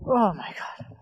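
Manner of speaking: whispering. Real, not acted. Whispered shock at the storm.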